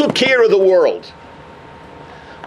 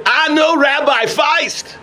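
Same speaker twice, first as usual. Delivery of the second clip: emotional mourner; 6 semitones higher, slower than usual. Acted.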